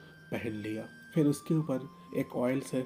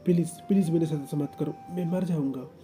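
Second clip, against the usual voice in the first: frightened pleading; 3 semitones higher, 4 dB louder than usual. Acted. Wing pleading in terror.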